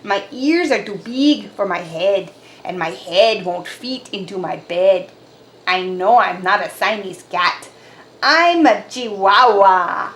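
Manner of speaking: lightly voiced Spanish accent; a hint of a Spanish accent. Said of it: "using his very best Spanish accent".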